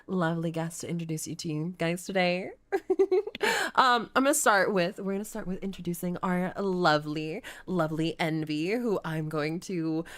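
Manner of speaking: sultry madam host; campy drag queen. Pretend. Hosting as brothel madam.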